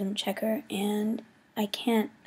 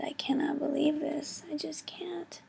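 higher, fading voice of disbelief; real worry, pitched up and trailing softer; freaking out; 5 semitones higher, 4 dB quieter than usual. Real, not acted. Vlogger fears failing her class, freaking out. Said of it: "I'm freaking out".

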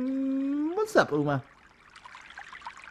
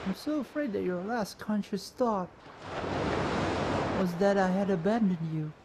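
hushed, heartfelt confession; soft pleading apology; 7 dB quieter than usual. Acted. Character apologizing to Gemma for being late, soft pleading. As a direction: plead softly and sincerely.

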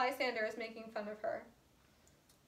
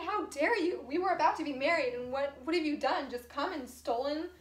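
raised, indignant retelling of her anger; mock-angry retelling; 2 semitones higher than usual. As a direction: confront the thief, half-acted. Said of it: "So now she's mad at Helena".

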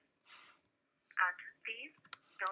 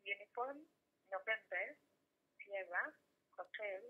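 cell phone line breaking up; tinny phone call audio; over the phone; 3 dB quieter, slower than usual. Real, not acted. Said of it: "you're breaking up".

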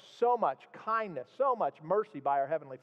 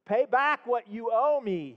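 slow, louder and higher demand; 5 semitones higher, 4 dB louder, slower than usual. Acted. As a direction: lean on the debtor for the money. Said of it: "he demanded".

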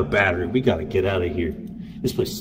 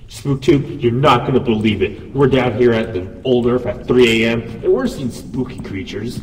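vlogger host voice; 7 dB louder than usual. Acted. The same intro filmed again.

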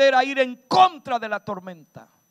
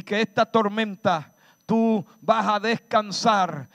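prayer declaration; 2 semitones lower than usual. Real, not acted. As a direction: declare it over them like a prayer. Preacher prays and declares over listeners.

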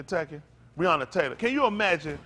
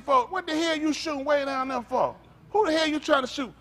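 retold call out; 9 semitones higher than usual. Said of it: "I said".

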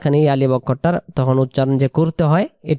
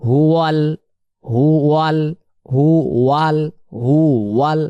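হু ওয়াল run together quickly; quick linked reading; faster; faster than usual. Shown as a demonstration. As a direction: join হু ওয়াল at speed. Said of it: "এবার আমরা fast করি".

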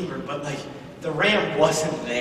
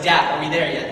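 lightly voiced nagging child, a bit louder; mild kid-in-the-back-seat whine; impatient kid; 4 dB louder than usual. Boy asking his father on the long walk, impatient kid. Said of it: "Isaac's like".

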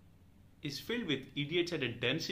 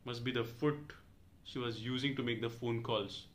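usual speaking voice

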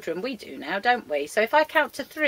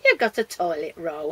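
laughing; 4 semitones lower, 4 dB louder than usual. Real, not acted. Laughing at puppet's find.

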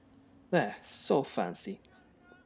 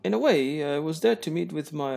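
1 posh guest voice; 4 semitones higher than usual. Acted. Voicing game dialogue.

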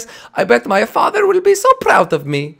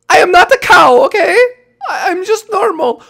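laughing protest; 11 semitones higher, 5 dB louder than usual. Acted. Insulted as a weird cow.

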